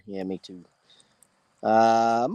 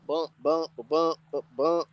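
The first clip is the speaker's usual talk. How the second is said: short, separated thump sounds; softly voiced "bump" beats; imitated bumping; 2 semitones higher, 4 dB quieter, slower than usual. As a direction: mimic a repeated bumping noise. Somebody's bumping out.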